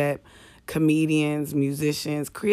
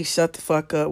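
with a smile. Retold or imitated. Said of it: "with a smile".

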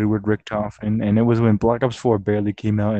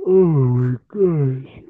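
whiny groan; 4 semitones higher, 7 dB louder, slower than usual. Real, not acted. Groaning, tired.

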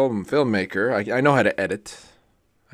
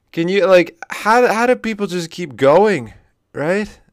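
exasperated outburst; 10 semitones higher, 10 dB louder, slower than usual. Real, not acted. Exasperated rhetorical plea.

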